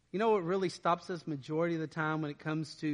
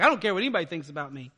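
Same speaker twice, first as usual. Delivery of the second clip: mock jerk; 5 dB louder, much faster than usual. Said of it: "someone who's kind of a jerk for Jesus".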